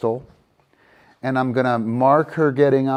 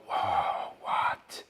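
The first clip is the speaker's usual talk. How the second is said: dog voice; 8 dB quieter than usual. Retold or imitated. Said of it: "see the dog go".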